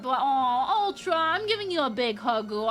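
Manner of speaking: playful fake sob while offering a hug; a hammed-up weepy aww; mock crying. Comforting viewer Ultra.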